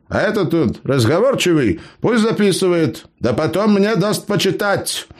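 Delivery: put-on high-pitched cheeky old gnome. A narrator's reading. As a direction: play the crafty gnome, pitched well up. Gnome Eber speaks.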